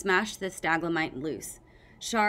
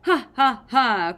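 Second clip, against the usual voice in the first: mock victory laugh; 4 semitones higher, 8 dB louder, slower than usual. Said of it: "Clay said".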